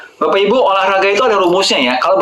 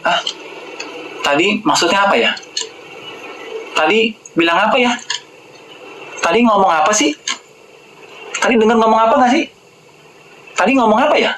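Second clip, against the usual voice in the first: lightly acted puzzled person, slightly higher; slow-witted questioner; 4 semitones higher than usual. Cholesterol-pill taker losing the thread, a hint of puzzlement. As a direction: mildly play someone who missed what was said. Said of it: "jadi tell me".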